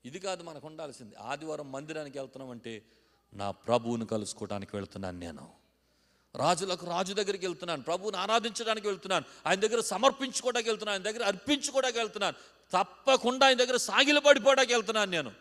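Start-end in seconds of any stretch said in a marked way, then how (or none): 3.3-15.3 rising from plain to a loud high climax; building devotion. Acted. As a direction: build the worshipper's vow to a cry. Voicing a devoted worshipper, building.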